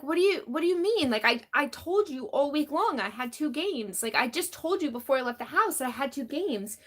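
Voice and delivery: imitating your own baffled, insistent self-defense; exasperated protest. Retold argument, protesting to accusing husband.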